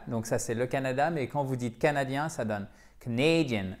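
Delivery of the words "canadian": Canadian stressed on the second syllable. Shown as a demonstration. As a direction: reduce the first syllable of Canadian, land on the second. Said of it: "Accent tonique sur la deuxième syllabe".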